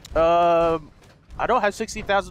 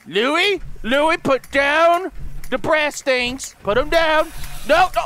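scolding a dog; 5 semitones higher, slower than usual. Pretend. Player ordering the dog Louis to drop it, scolding. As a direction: call out a firm order to a pet.

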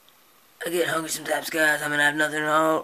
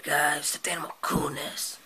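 whispery snake. Acted. Snake puppet voice.

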